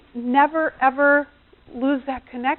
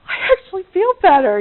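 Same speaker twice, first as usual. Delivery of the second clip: high, loud acted delight; delighted relief; 8 semitones higher, 8 dB louder, faster than usual. Husband after wife vents for him, delighted relief. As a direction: play a husband thrilled to be relieved.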